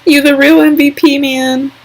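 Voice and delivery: high, put-on sassy voice; a cheeky shout-out to her favourite twin; sassy praise. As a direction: hype her up with a playful high cheer. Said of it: "I'm just like".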